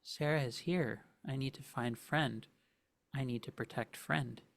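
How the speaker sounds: lost, simple-minded creature voice; confused creature. Acted. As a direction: sound bewildered and searching. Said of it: "the voice that it uses... very confused".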